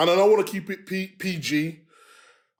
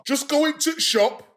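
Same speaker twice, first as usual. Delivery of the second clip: slow Yorkshire, going to shop; Yorkshire accent; 3 semitones higher, slower than usual. Shown as a demonstration. The speaker gives them a Yorkshire line, slow Yorkshire accent. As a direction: drop the the, broad Yorkshire. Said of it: "Yorkshire, here we go".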